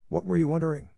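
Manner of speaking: high-pitched, insistent question; demanding. A narrator's reading. Miss Minchin angrily demands answer.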